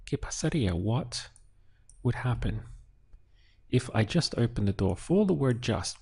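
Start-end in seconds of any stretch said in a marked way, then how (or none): 0.1-0.7 ¿Qué pasaría? lifted higher on Qué and then falling; ¿Qué pasaría? modelled high on Qué; higher model question. Shown as a demonstration. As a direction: say ¿Qué pasaría? again, pitched up on Qué. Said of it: "With an accent over the I".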